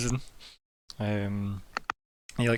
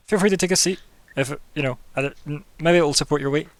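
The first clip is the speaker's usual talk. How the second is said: jeweller voice; 4 semitones higher, 6 dB louder than usual. Acted. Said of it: "He goes".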